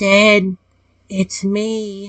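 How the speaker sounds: spectral, ghost-like voice. In a role-play scene, an unseen voice speaks from behind the player, ghostly voice. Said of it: "I hear a ghostly voice say".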